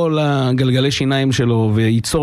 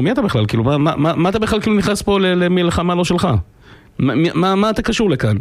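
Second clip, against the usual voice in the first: higher-pitched, incredulous questioning; mock rebuke, stumbling over the repeated questions; indignant challenge; 5 semitones higher than usual. Sages challenging a rabbi who meddles, indignant.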